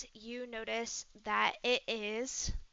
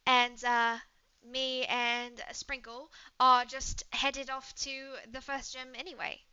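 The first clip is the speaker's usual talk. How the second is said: put-on lightly British-accented casual invitation; easygoing British traveler; British woman, inviting; 3 dB louder than usual.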